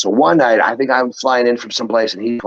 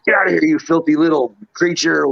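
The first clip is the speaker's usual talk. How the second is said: higher-pitched acted shooing; mock scolding; 7 semitones higher than usual. Edge chasing Hornswoggle out of the room, mock scolding. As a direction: play at chasing off a pest.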